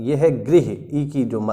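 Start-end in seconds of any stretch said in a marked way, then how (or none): 0.4-0.7 गृह pronounced like "grih"; "ri" sound in गृह. Shown as a demonstration. Teacher showing two look-alike words apart, गृह with "ri" sound. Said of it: "री का जो sound आ रहा है".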